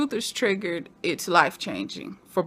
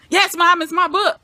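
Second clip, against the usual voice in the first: high, loud exasperated son; mock exasperation; 8 semitones higher, 6 dB louder than usual. Imitating son defending his book to mom, mock exasperation. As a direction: answer back loudly, playing put-upon.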